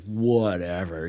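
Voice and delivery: drawn-out, brushed-off "whatever"; dismissive. Retold or imitated. Speaker imitates skeptical guys in a meeting, dismissive. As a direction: imitate someone slowly shrugging it off.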